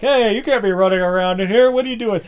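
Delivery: high, loud chef protest; hammed-up outraged challenge; mock indignant shouting. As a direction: yell at intruders like kitchen staff. Acted chefs yelling at intruders.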